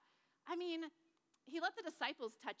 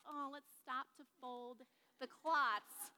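slow, silly put-on robber voice; mock grave robber; slower than usual. Teacher mocks grave robbers pausing to fold cloths, slow silly voice. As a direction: lampoon a tidy grave robber. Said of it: "Do you think grave robbers are like".

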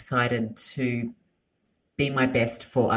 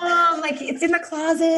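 put-on whiny American kid accent; 4 dB louder than usual. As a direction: answer back like a bratty American kid. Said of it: "they're all like".

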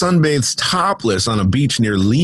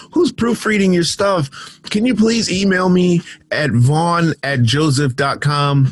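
exasperated plea; 4 semitones higher than usual. Real, not acted. Exasperated pleading to editors.

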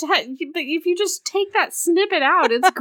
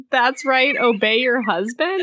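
husky; 2 semitones lower, slower than usual. Retold or imitated. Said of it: "he, like, huskily says".

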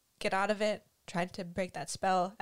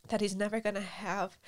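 tearful repeat, steady; crying. Real, not acted. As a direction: repeat it through tears.

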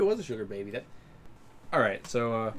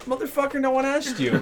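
much higher, exasperated snap; a hammed-up irritated comeback; mock annoyed retort; 12 semitones higher, 4 dB louder than usual. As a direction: act fed up with the stranger. Retorting to the butting-in guy.

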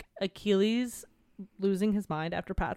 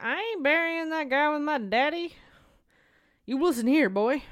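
mocking Pyrrhus; 6 semitones higher than usual. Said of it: "Pyros comes along ... is like".

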